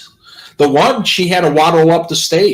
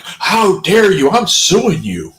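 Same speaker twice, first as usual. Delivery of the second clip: mock-offended, pitched up; mock indignation; 4 semitones higher than usual. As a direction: play the affronted victim, stretching each word. Acting out an offended accuser.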